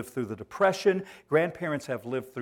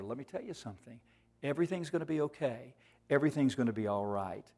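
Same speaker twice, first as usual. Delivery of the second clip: much softer, hushed comfort; reassuring grandma; 6 dB quieter, faster than usual. Acted. Grandma comforting her granddaughter at bedtime, soft and reassuring. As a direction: soothe a frightened child quietly. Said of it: "Grandma's reassuring hug".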